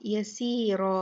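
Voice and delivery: यसीरा with a thick, full रा; यसीरा ending on a heavy रा. Shown as a demonstration. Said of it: "ये रा मोटी पड़ी जाएगी".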